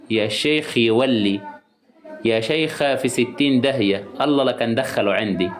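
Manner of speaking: slow, scornful brush-off; dismissive brush-off. Shown as a demonstration. Host shows how she dismisses an unwanted viewer, slow scornful brush-off. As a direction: wave the intruder away slowly with contempt. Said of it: "أما اللي واقف ده،".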